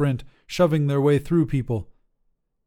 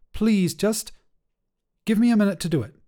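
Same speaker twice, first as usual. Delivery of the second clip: higher, strained plea; tense pleading; 9 semitones higher, 3 dB louder than usual. Acted. Ari begging Mads to let them lock the door, strained. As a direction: beg for a moment, strained.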